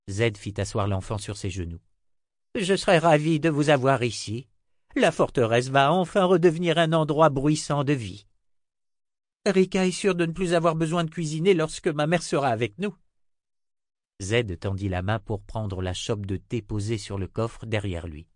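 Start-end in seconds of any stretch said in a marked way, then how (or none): 2.6-13.0 lightly voiced old wizard, higher and lively; a touch of a cheery old man; old wizard Zed. Old wizard welcomes the family back, lively raised voice.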